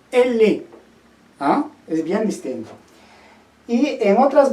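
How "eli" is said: eli said with a soft l in place of the j. Shown as a demonstration. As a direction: glide through eli. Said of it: "a decir".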